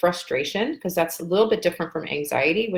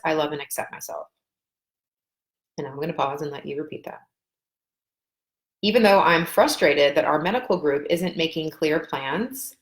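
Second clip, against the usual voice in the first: tapping setup statement. Shown as a demonstration. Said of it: "I'll say it as if I am you".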